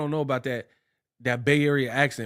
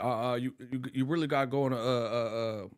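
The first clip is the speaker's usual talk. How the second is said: Coogler voice; 5 semitones lower, 6 dB quieter, faster than usual. Retold or imitated. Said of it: "He's like".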